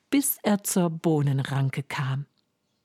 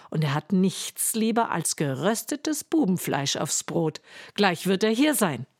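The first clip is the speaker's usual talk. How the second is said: a hint of a warning housewife, slightly raised; stern giant's wife; 2 semitones higher than usual. Giant's wife warning hungry Hans, lightly stern. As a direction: warn the boy off, half stern.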